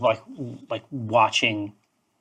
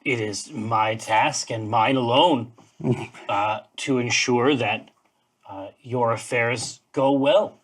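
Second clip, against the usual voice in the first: a touch of formal, halting gravity; slow, mildly pompous declaration of duty; lightly voiced solemn bird.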